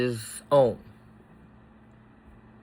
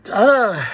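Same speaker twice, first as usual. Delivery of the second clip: overwhelmed groan; 7 semitones higher, 6 dB louder than usual. Real, not acted. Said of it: "I didn't think I was getting emotional".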